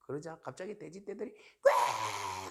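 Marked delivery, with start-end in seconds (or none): 1.6-2.5 sudden imitated pig squeal; mimicked squealing noise.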